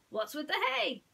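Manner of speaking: high, bright little mouse voice; squeaky high mouse greeting his friend; Timothy the mouse. Acted. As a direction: play a tiny cheerful mouse.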